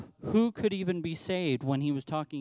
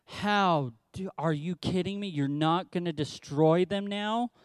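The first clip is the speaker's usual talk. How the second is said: indignant disbelief. Retold or imitated. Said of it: "He is mad".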